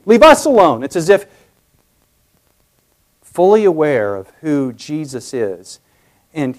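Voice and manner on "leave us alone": us leaned on in a high plea; stress on us. Shown as a demonstration. Preacher stresses the demon's plural us. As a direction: press on the word us, pleading. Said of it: "notice the plurality".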